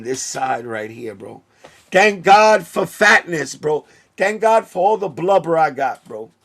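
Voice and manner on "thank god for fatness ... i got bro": excited. Real, not acted. Relieved outburst after the fall.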